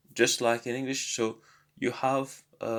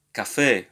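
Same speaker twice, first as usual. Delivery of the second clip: "café" with a firm, louder final syllable; stress on final syllable; 6 dB louder than usual. Shown as a demonstration. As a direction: punch the last syllable of "café". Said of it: "which syllable should be stressed".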